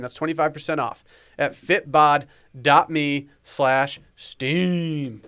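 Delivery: upbeat sponsor ad read. Acted. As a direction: read it like a radio ad. Reads sponsor ad.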